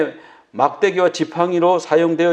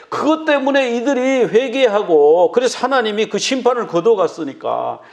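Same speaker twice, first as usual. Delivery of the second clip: angry complaint; 2 semitones higher than usual. Retold or imitated. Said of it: "요나가 막 화가 나가지고요".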